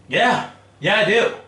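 high, loud, gleeful brag; cocky yes. Retold or imitated. Cocky answer to boss, quoted.

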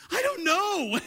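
high, laughing admission; laughing confession. Retold or imitated. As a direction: laugh it off helplessly. Laughing answer to the manager.

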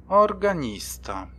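high, slow incredulous echo; slow, high disbelief; disbelieving. Acted. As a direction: repeat it as if you can't believe it. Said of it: "dopytywał się z niedowierzaniem".

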